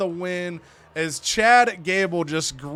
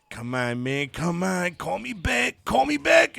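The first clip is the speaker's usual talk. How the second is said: mock terrified. Spooked mobster begging his phone for a call back, hammed-up panic. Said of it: "He's terrified".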